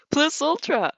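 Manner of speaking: loud, high rallying shout; rallying cry. Acted. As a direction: rouse the class. Rallying school motto.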